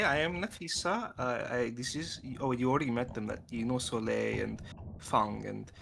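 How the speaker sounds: normal talking voice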